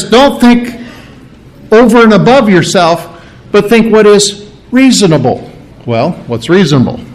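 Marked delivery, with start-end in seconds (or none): 0.0-5.5 raised, pressing don't think over and above; earnest preacher's warning, higher voice; emphatic warning. Retold or imitated. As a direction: urge them firmly, pitched up. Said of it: "So he says".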